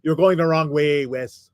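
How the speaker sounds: halting, slow New England politician impression; John F. Kennedy. Shown as a demonstration. Doll twin steering Wes as a president, halting impression. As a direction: attempt a presidential impression with drawn-out uhs. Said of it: "What if it talked like".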